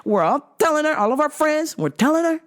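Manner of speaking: a hint of a serious mobster. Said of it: "I gotta put on my mobster voice".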